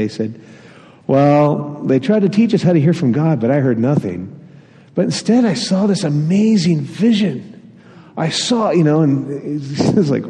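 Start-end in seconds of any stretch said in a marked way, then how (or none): 1.1-8.7 lightly voiced child, a little higher; a kid earnestly telling his mom; a hint of an excited little boy; child's voice. Child retelling church to mom.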